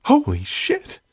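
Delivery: very high, shocked yell. Acted. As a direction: shriek it out in shock. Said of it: "She yelled".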